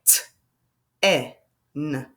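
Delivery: each sound of T, E, N said apart with pauses. Shown as a demonstration. Teacher sounding out ten for young learners. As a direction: tap out T, E, N one sound at a time. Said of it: "Watch how I can sound it out".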